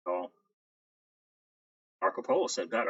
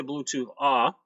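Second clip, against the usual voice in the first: metallic voice filter; 2 semitones higher, 3 dB louder, slower than usual. Real, not acted. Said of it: "Sounds like you're in a tin can".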